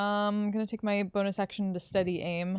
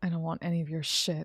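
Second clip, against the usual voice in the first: sinister, menacing delivery with a dark edge; 3 semitones lower than usual. Voicing a character who glares at another and refuses him: sinister voice. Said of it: "it sounded really sinister".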